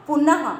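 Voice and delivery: पुनः with a clear final ह; visarga ending. Shown as a demonstration. Teacher repeats पुनः to show the visarga. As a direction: pronounce पुनः ending on a breathy ह. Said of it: "क्या हो गया".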